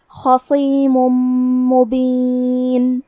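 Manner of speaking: خصیم مبین, tanween merged into the meem with nasal hum; idgham with ghunna. Shown as a demonstration. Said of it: "تنوین کو میم میں ملا کے غنہ". (خصیم مبین میں ادغام بغنہ)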